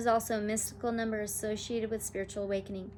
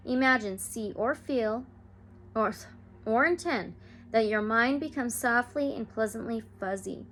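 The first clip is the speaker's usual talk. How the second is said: soothing meditation read; guided meditation. Acted. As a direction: lead listeners gently into calm. Leads a guided healing meditation.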